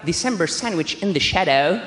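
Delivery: low, drawn-out put-on English voice; mock jazz title announcement. Naming absurd instrumental jazz demos, mock-smooth low voice. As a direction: croon the title slowly, deep in register.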